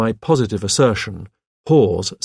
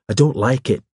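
shrill; 3 semitones higher than usual. A narrator's reading. Hawes objects to a visitor dropping by, a little shrilly. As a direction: object fretfully, without extra volume. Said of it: "His voice rose shrilly".

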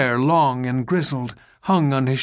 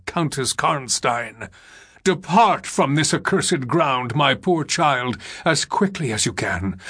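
put-on grave old general, mildly urgent; a hint of a commanding general; lightly voiced agitated general. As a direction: give solemn orders, a touch agitated.

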